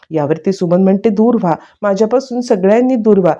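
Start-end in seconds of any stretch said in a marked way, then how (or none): 1.1-3.3 raised pitch at near-normal volume; half-hearted retold cry to keep everyone away; mock yelling. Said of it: "मोठ्या मोठ्याने ओरडायलाच लागलेली".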